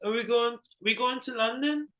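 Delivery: high, mock British accent. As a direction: try out a posh British voice. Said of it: "How you do a British accent?".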